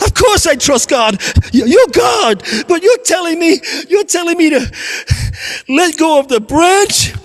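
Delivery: high, frantic begging; panicked pleading. Acted. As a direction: beg for rescue in panic. Climber pleads with God.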